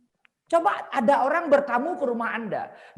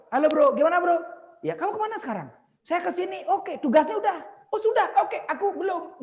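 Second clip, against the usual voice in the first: loud, high, eager office banter; acting out keen coworkers trading quick questions; enthusiastic office greeting; 9 semitones higher, 4 dB louder than usual. Shown as a demonstration. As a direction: greet colleagues with bright energy. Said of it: "jalannya ya mantap".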